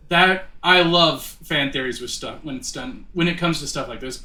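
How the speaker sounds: stumbling over the words; tripping over each phrase; stuttering. Real, not acted. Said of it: "I'm just stuttering all over the place".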